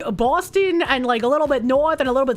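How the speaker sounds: Boston accent. Shown as a demonstration. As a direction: lay on a tough Boston accent. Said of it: "You thought that was a New York accent?".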